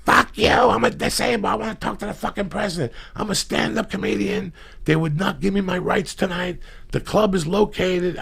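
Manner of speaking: loud, high mock rant, yelling at the White House; shrieking drunk woman yelling into the phone; imitating drunk Lisa on the phone. Mimicking a drunk friend ranting at the White House, high and loud.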